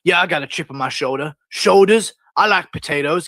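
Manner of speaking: hint of a rambling interviewee; Tony Ferguson. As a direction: jump eagerly from word to word. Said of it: "he'll say something about the last word".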